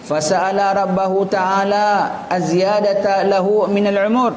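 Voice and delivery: steady, measured recital of a religious text; formal Arabic reading. Acted. Teacher reading an Arabic story to listeners, formal reading. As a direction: read the Arabic narration aloud, evenly.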